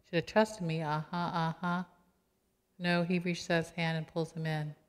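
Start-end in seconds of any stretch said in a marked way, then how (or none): 0.0-1.8 sarcastic jab. Pretend. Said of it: "this is where I always say".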